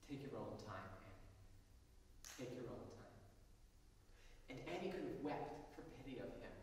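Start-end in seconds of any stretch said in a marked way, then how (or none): 0.1-3.2 voice shaking. A narrator's reading. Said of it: "his voice shaking a little".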